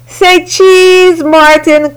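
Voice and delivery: playful photographer voice; cheery photo call. A narrator's reading. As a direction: call out like a child with a new camera. Ruthie taking photos happily.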